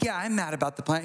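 offhand, quick mild annoyance; mildly mad. Acted. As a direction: act out only slight irritation, briskly. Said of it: "He's not just like".

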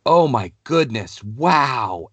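a light imitation of a wowed kid; kid's awe. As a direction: voice the son marveling at his glowing saber. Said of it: "And Jax goes".

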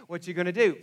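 the fear is taking over now; panicked inner voice. Retold or imitated. Anxious thoughts growing louder.

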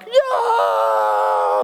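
a low, whooping yell of thrill; gleeful low shout; excited yell. Retold or imitated. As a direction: whoop it out as the jet ski launches. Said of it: "and I'm like".

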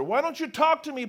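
a touch of a demanding governor; mild demand. Acted. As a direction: press him lightly for an answer. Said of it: "Pilate demanded".

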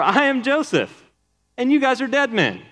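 lightly voiced mock threat, pitched high; a hint of a hammed-up avenger; vengeful Joseph. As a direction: gloat that the brothers are dead men.

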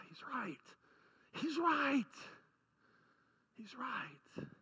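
very soft, breath-heavy concession; sigh, then admit it almost without voice; hushed admission. Acted. Guilty people answer Almighty God's charge, hushed and conceding.

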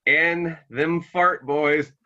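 Andy. Retold or imitated. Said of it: "Anytime Andy's like".

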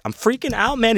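high-pitched panicked imitation; mock panic. Imitating a tripping kid jumping up, mock panic. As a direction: squeak it out like a freaked-out kid.

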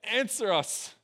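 loud, high, drawn-out mock invocation; acted plea, pitched high and stretched out; calling upon a god. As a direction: cry out slowly to an idol, hammed-up. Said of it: "it called upon the name of Baal".

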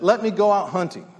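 lightly acted boy's insistent request; complaining. Boy begging his grandmother to hunt, complaining. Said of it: "the boy started complaining".

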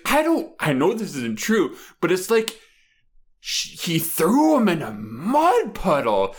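high, slow, half-crying complaint; teary sketch woman. Retold or imitated. On the phone in the sketch, mock crying. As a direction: whine through mock tears. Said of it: "She's like".

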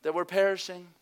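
loud pleading shout; frustrated cry. Retold or imitated. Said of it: "they get so frustrated. They say".

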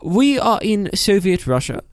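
put-on Russian accent; mock Soviet Russian delivery. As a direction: declare it in a comic Russian accent. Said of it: "this is how we talk here".

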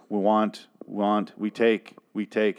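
lightly imitated robotic caveman; slow, stilted primitive speech; a hint of robot caveman, word by word. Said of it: "she talks very robotically".

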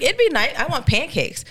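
high, longing little whine; wistful wish. Retold or imitated. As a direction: sigh it like a small wish. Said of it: "I was like".

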